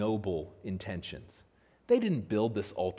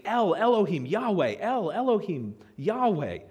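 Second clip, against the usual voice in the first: fervent invocation; 7 semitones higher, 4 dB louder than usual. Retold or imitated. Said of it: "they're saying".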